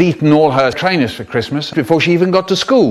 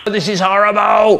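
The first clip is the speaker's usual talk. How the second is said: squeaky hamburger voice; 5 semitones higher, 4 dB louder than usual. Acted. Hamburger voice complaining.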